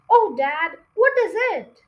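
put-on high, loud excited child voice; eager small fox. The small foxes begging Dad, high and excited. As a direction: beg Dad for the idea. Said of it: "small foxes eager".

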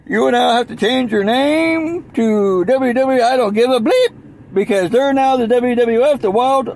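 lightly hammed-up official demand; mock decree. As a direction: hand down a ruling with mock authority. Acts out rival's demand for name change.

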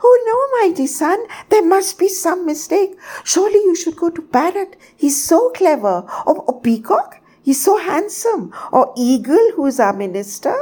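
high, squeaky bird in a flustered panic; hysterical outburst. A narrator's reading. Tiny bird begs sun to choose anyone else, hysterical. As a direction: protest frantically, stammering from one name to the next. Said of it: "my hysterical pow-, outburst".

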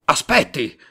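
loud call to stop him; shouting wait. Acted. Tate to Simon who is leaving, a loud call. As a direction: call him back loudly. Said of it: "gridò il signor Tate".

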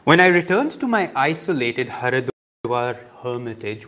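measured reading-aloud voice; book reading. Acted. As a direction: read the passage steadily to listeners. Reads the autobiography aloud.

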